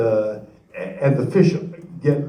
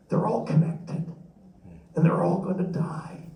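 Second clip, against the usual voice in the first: grieving, near tears; 2 semitones higher, 6 dB quieter than usual. Real, not acted. Speaker telling the audience why he grieves, hushed and tearful. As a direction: let the grief break through softly. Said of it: "That's what I'm feeling".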